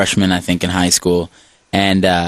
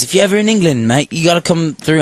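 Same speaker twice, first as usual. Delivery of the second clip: put-on Australian accent; 7 semitones higher than usual. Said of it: "I'm sounding like an Australian".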